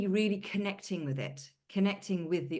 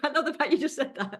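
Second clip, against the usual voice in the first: retold amused delight; 9 semitones higher, 8 dB louder than usual. Retelling friend's amused reaction, laughing.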